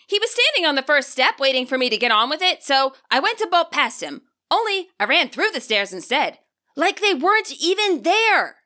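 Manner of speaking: put-on high girl voice slowing into an eerie ending; Nimona, spooked recollection. Nimona remembering running through the stairs, slowing to eerie.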